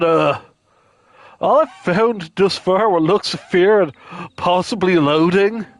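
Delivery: laid-back surfer dude. Acted. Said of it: "I'm just gonna give him the surfer dude voice".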